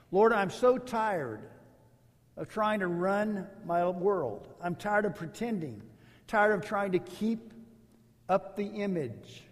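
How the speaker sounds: humble prayer voice. Acted. Models a prayer to God.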